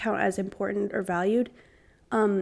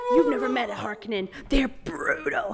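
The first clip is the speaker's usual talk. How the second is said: whisper; 2 semitones higher than usual. Pretend. Quoting Dune menacingly.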